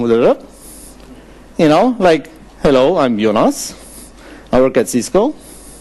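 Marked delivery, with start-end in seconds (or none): 4.5-5.3 pitch rising on the word Cisco. Imitating Norwegian speakers introducing themselves, question-like rise on 'Cisco'. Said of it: "they end the sentence like a question".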